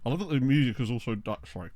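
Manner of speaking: talking through a mouthful of food; words round a bite of brownie; mouth full. Real, not acted. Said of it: "Rude to talk with your mouth full".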